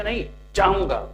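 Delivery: loud, mock defiant refusal; acted refusal. Child answers mother who said don't go there, mock defiant. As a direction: refuse firmly, playing the stubborn child.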